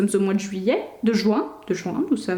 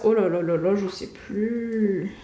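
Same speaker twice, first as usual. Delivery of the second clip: stressed; 4 semitones lower, 3 dB quieter, slower than usual. Real, not acted. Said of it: "je suis stressée".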